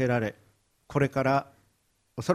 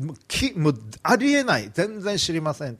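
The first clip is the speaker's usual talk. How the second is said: higher and louder, flustered and insistent; desperate denial; 3 semitones higher, 3 dB louder than usual. Acted. Peter denying Jesus a third time to the crowd, panicked. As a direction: swat the accusation away in a panic.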